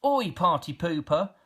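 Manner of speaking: little troll snapping at the party pooper; snapping Grouch. Acted. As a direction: fling the insult back sharply. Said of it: "snapped the Grouch".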